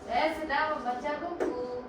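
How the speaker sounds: "Saya sedang membaca buku" in an even, everyday tune; level statement intonation. Shown as a demonstration. Student reads an example statement to teacher, level intonation. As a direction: read "membaca buku" evenly, a little soft. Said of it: "Ni, intonasi dia men- datar".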